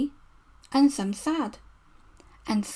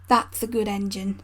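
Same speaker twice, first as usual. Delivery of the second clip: lower, gentle praise; kind; 3 semitones lower than usual. Acted. Fat Controller kindly praising Edward, gentle and low. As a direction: pat him on the back with your voice. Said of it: "said the Fat Controller kindly".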